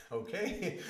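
high, startled okay; a stunned, wary okay; surprised okay. Retold or imitated. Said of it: "They thought I was crazy".

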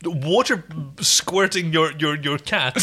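laughing admiration. Real, not acted. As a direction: tease while laughing. Laughing teasing praise.

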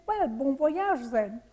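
put-on slow, lightly French-accented quote; old man's hint of French accent; French-English accent. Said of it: "in a French-English accent".

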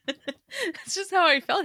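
laughing through the words; giggling while talking. Real, not acted. Laughing at own joke.

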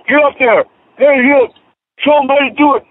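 high, eager father urging his son on; pushy fan father. Retold or imitated. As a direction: egg the kid on like a proud dad. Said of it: "But the father goes".

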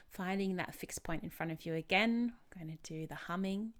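calm, unhurried instructions with long pauses; guided meditation. Real, not acted. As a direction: lead a relaxation exercise gently.

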